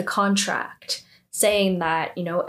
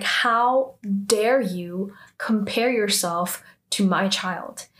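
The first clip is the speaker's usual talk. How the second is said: slow, measured mock indignation; retold anger; slower than usual. Sejin rebuking the student for the comparison, angry. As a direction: draw out each word in imitated outrage. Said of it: "gets super angry".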